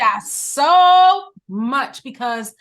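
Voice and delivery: emotional, on the verge of crying; choking up. Real, not acted. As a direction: voice catching, near tears. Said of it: "well, I'm about to cry".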